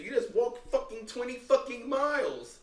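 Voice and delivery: high put-on wife scolding; mock wife voice. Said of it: "My wife said".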